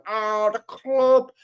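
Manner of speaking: imitating a footballer whining to his club; mock moaning player. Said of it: "moaning at the club going".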